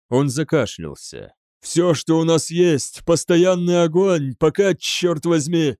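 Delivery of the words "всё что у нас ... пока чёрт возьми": raised, higher urgent voice; barked orders. A narrator's reading. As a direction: push out the battle orders forcefully. Choked officer barks firing orders. (командует на повышенных тонах)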